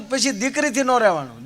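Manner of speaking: ordinary delivery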